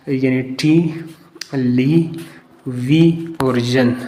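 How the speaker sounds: "टी, ली, वी और जन" split into slow separate syllables with pauses. Shown as a demonstration. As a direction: spell out टी ली वी जन one beat at a time. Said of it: "syllable इसके हेजे बनाना". (शब्दांश अलग-अलग, रुक-रुक कर)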